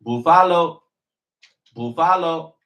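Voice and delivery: excited shout. Real, not acted. Hyped repeated team name.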